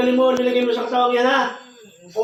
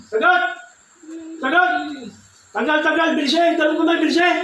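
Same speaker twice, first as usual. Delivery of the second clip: commanding shout; 6 semitones higher than usual. Acted. Demanding the spirit answer.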